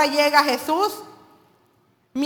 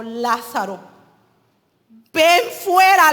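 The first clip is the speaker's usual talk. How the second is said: calling out; 4 dB louder, slower than usual. Retold or imitated. Jesus calls Lazarus out of tomb.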